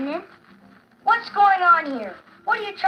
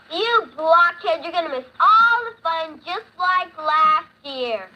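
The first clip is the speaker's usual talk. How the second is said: angry yell; 2 semitones higher, 5 dB louder than usual. Acted. Lucy yelling at Linus.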